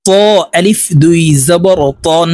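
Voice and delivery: ত and তন said with a thick, heavy t. Shown as a demonstration. Teacher drilling learners, heavy ত and তন. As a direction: make the t of ত and তন full and heavy. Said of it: "এই ত হরফকেও মোটাভাবে উচ্চারণ করব".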